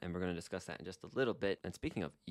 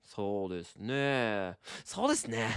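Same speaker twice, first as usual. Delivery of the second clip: musing agreement. Shown as a demonstration. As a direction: savor each word as you agree. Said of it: "I'd be like".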